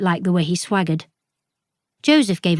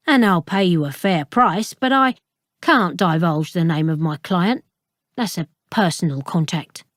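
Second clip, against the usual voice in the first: a hint of a patronising bookseller; Ralston's voice. Ralston lectures Flora slowly.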